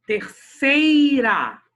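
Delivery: "terceira" with SEI very long and loud; slow, loud stressed syllable, falling off on "ra". Shown as a demonstration. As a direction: hammer and hold SEI in "terceira". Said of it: "a paroxítona é a sílaba tônica da palavra terceira".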